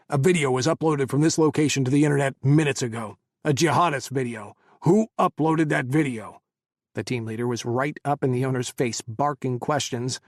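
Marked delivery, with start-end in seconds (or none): 0.1-6.4 stern interrogation. Acted. Team leader interrogating owner.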